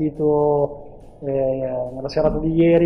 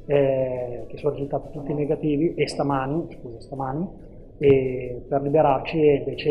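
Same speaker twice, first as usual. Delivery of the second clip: phone-recorded interview audio; tinny cellphone recording; low quality stream. Real, not acted. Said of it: "ci scusiamo per la qualità dell'audio".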